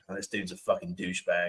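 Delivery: low, hushed mock judgement; muttered aside. Asking a contestant about rivals, muttered pretend insult. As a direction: drop low and under your breath. Voices a hypothetical private judgement.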